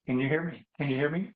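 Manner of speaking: muffled, as if underwater. Real, not acted. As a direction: voice sounding submerged and muffled. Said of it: "you sound like you're underwater".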